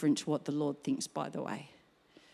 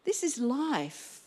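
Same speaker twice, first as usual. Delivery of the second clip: quiet wonder; 5 semitones higher than usual. Retold or imitated. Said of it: "and I thought".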